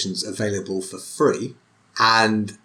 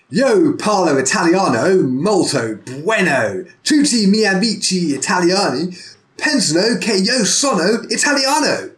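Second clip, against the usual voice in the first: hammed-up English accent mangling Italian, pitched higher and louder; exaggerated English accent; 8 semitones higher, 4 dB louder than usual. Shown as a demonstration. To friends, showing off bad Italian in exaggerated English accent. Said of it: "the most ridiculously exaggerated English accent".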